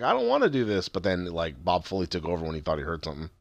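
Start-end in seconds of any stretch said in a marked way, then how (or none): 0.0-0.9 higher-pitched reluctant plea; mildly acted dread; retold horror. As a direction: imitate someone horrified by their own act. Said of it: "like, horrified 'cause he's like".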